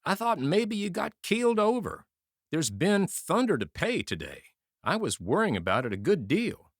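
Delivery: a high, lightly voiced even drone; monotonous voice. Wounded soldier telling his friend, in a high monotone. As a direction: keep it flat and level despite the words. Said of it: "in a monotonous voice".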